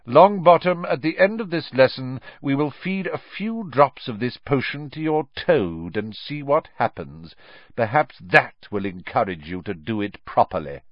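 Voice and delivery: high, loud, mocking threat; menacing teacher. A narrator's reading. Snape threatening to test the potion on Neville's toad, mocking menace. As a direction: savour the threat.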